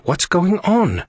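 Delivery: very high, drawn-out demand. A narrator's reading. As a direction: insist on an answer. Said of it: "Aria demanded".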